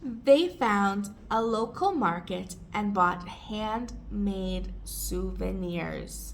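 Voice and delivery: slow, word-by-word model reading; slow and careful, small gaps between phrases. Shown as a demonstration. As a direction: stretch it out for learners. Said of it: "read it more slowly and take pauses".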